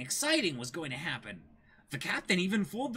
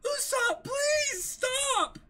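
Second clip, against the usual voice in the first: tearful plea; 3 dB louder, much slower than usual. Acted. Kaya pleads as Usopp fights.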